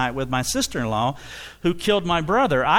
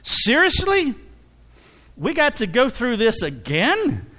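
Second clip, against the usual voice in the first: exasperated at himself; 7 semitones higher than usual. Retold or imitated. Preacher reliving his frustration at sinning again, high and exasperated. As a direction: blow up in frustration at your own sin. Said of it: "It's like".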